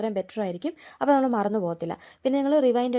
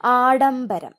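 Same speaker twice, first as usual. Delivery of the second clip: ആഡംബരം called out louder, falling; announced word; 6 dB louder, much slower than usual. Shown as a demonstration. Teacher announcing the word to students, loudly. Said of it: "ഡാ ഏതാന്ന് നോക്കണം".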